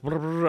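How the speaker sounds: quick babbled trill, imitating tongues; mock speaking in tongues. Man recalling his bedside prayer, babbling in mock tongues. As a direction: sketch a rapid burst of tongues. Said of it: "I'm speaking in tongues".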